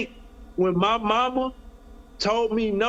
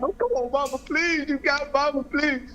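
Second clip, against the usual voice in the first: retold crying plea; 5 semitones higher than usual. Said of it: "Now I'm crying on the phone".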